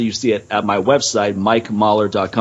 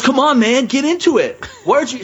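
put-on much higher, pushy drunk-girl voice; 13 semitones higher than usual. Drunk concertgoer badgering a stranger at a show, mock drunk girl. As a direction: imitate an annoying drunk woman, pitched way up. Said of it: "six octaves higher".

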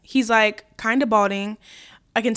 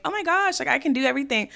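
mock hyped up; 3 semitones higher, 3 dB quieter than usual. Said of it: "go up into this immediate".

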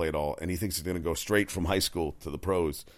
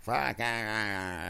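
mock Brady sideline yell; 4 semitones higher, much slower than usual. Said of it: "he's always screaming like".

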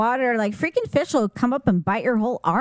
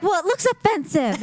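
much higher mock mom voice; imitating mom; 9 semitones higher than usual. Sibling imitating mom scolding the kids, higher mock voice. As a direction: play the prim disapproving mother. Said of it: "But she's like".

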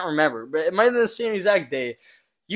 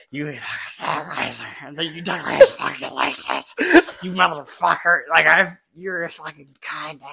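slow, drawn-out mock rant as Vanny; mimicking an upset teammate; imitating Vanny raging; slower than usual. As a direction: drag out a furious accusation in a put-on voice. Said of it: "He goes".

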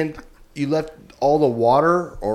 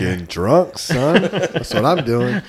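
mock drunk bravado; 5 dB louder, slower than usual. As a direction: play the boastful drinker.

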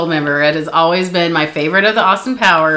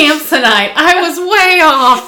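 higher, slow quote voice; movie quote voice; 7 semitones higher, 4 dB louder than usual. Retold or imitated. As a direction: drawl it like the movie. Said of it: "I still use that quote".

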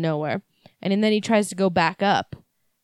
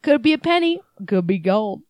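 put-on Southern accent. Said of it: "in a thick Southern accent".

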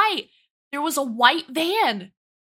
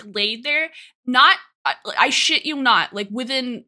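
ordinary talk

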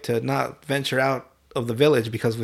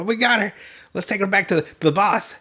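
pitched-up, dim-witted henchman; higher cartoon thug voice; goofy bandit voice; 6 semitones higher than usual. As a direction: play a proud, dopey bandit. Bandits voiced after kidnapping Kagome.

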